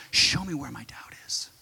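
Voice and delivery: hushed prayer to the Holy Spirit; whispered prayer. Acted. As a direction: pray it under the breath.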